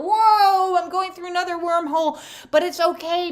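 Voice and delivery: high, loud, laughing exhilaration; thrilled wormhole rider. Acted. Traveller shouting through the wormhole, ecstatic high whoops. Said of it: "we're gonna be like".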